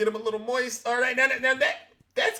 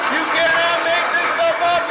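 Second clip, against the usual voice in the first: incredulous exclamation; 6 semitones higher, 6 dB louder than usual. Real, not acted. Host to listeners after the clip, loud incredulous exclaim. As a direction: still half-laughing, higher and louder. Still laughing, addressing audience.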